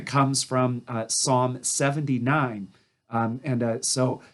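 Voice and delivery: hoarse, voice giving out; losing voice, a bit hoarse. Real, not acted. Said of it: "I'm losing my voice".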